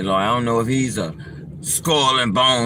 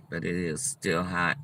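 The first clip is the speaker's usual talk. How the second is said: talking between hot sips; sipping hot coffee while talking; slurping; 5 semitones lower, 10 dB quieter than usual. Real, not acted. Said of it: "I'm slurping".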